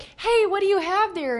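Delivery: mock mother voice. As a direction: chirp it like a suspicious mom. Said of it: "And she's like".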